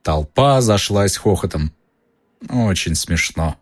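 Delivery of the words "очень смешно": low, slow and sullen; gloomy. Acted. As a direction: say it dryly, unamused. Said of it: "мрачно заметил".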